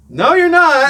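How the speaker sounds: high, very loud retort; retold contradiction, hollered with amusement; mock defiant shout. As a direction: yell it back across the park. Retold shouting back at heckler.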